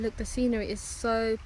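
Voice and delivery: put-on a light, barely-there Australian accent; lightly voiced Australian accent. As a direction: admire the view like a jokey Aussie. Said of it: "That's me with my Australian accent again".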